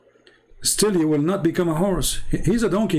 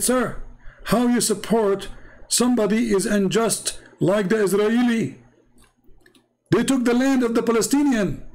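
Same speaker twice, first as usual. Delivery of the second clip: indignant Muslim questioner; 6 semitones higher than usual. Retold or imitated. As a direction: imitate an audience member challenging the speaker. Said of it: "A Muslim, he put his hand up".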